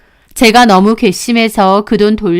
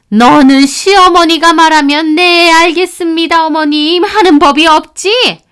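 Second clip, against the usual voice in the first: put-on higher, reproachful older woman; scolding mother-in-law; 7 semitones higher, 5 dB louder than usual. Mother-in-law scolding daughter-in-law, reproachful. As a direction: needle her with reproach.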